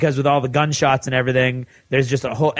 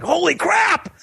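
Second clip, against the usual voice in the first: much higher, squealed mock shock; shocked viewer; slower than usual. Fan retells being stunned by the twist, high squealed shock. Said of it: "And I'm like".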